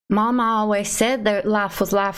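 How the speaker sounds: a hint of a Southern character impression; Forrest Gump. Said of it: "One of them has to be Forrest Gump".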